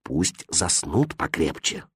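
low, very soft and slow; quiet warning. A narrator's reading. The innkeeper hushing his impatient son. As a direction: hold him back in a murmur. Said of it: "сказал отец".

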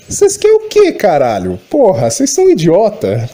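frustrated ranting; real anger. Real, not acted. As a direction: vent the rage at the viewers. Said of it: "dá raiva isso".

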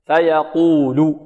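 "فيقول" slow, with a light, thin ل; drawn-out recitation of "فيقول", lam not thickened. Shown as a demonstration. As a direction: stretch "فيقول" and keep the final ل light. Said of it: "واللام مرققة".

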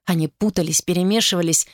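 ordinary delivery, nothing marked

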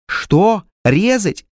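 frightened peasant woman. A narrator's reading. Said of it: "спросила баба бледнее".

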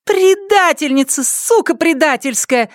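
high furious name-calling; cursing. Acted. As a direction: spit the curse at her. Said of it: "костерила её Панди".

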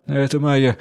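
usual speaking voice

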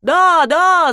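hammed-up crowd cry; crowd shout. A narrator's reading. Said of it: "закричал народ".

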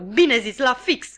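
loud cry of approval; shout. Acted. Pumblechook loudly applauding the sister's speech. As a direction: call out bravo. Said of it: "strigă unchiul Pumblechook".

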